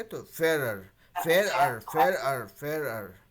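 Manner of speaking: फेयर अर spoken as two parts, the अर kept plain; syllable split. Shown as a demonstration. Teacher drills the split word with the class. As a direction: repeat फेयर अर with a small break each time. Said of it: "ऐसा हो जाएगा आपका".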